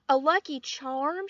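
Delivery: loud excited shout. A narrator's reading. Lucille hearing Sheldon's news, loud excited shout. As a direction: blurt it out loud in amazement. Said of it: "she shouted".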